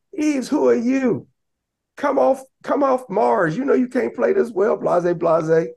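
a high, slow mocking heckle from the bench; heckling coach. Coach heckling a player from the bench, high mocking tease. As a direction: needle the player from the sideline, drawn out and high. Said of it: "So, you know, he's cracking".

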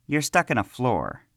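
a boy's mock-incredulous yell. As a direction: shout it at him scornfully. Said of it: "Pilash yelled".

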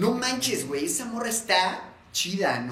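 a hint of forced chilango swagger. Friends parodying the forced chilango stereotype, mock chilango voice. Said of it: "Como el chilango forzado".

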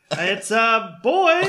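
high, loud, drawn-out announcement; announcing doctor. Retold or imitated. Doctor announcing the baby to the parents, hammed-up cry. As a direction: proclaim the birth, laughing. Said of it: "and the doctor's like".

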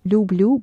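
люблю with both Ls soft and palatal. Shown as a demonstration. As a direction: soften each L in люблю. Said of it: "Both sounding very soft".

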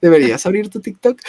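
lightly imitated friend, high questioning start; Gaby Mesa. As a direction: pitch the friend's suggestion up, then ease down. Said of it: "Me dijiste".

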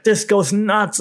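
high mock hype announcer; clickbait hype voice. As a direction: oversell it like a YouTube thumbnail. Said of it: "or like".

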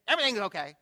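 a touch of mock testiness; sharp retort. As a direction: imitate a touchy lady on the phone. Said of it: "kind of being a little".

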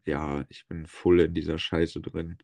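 nasal, stuffed-up voice; blocked nose. Real, not acted. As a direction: talk like your nose is blocked. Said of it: "meine Nase ist zu".

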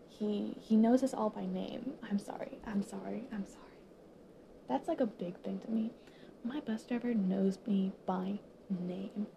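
holding back real tears; crying softly. Real, not acted. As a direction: whisper through tears, apologizing. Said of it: "I'm, I'm literally crying".

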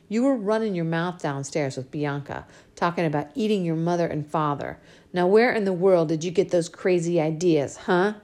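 lightly voiced scolding father; a hint of a gentle but firm dad; father scolding his spoiled little girl, lightly voiced; Daddy's voice. Father questions daughter.

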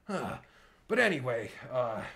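ordinary talk

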